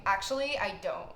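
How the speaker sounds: a hint of sass, imitating the boyfriend; lightly mocked sassy reply to a cop. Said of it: "In, like, the sassiest voice".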